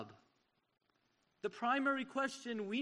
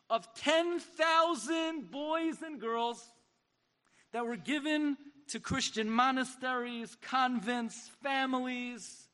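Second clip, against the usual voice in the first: raised, slow, emphatic preaching; impassioned call; 3 semitones higher, slower than usual. Retold or imitated. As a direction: stretch out each word with passion. Herzog's impassioned speech retold.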